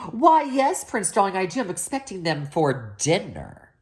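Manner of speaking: high, sugary witch voice; sweet witch. Acted.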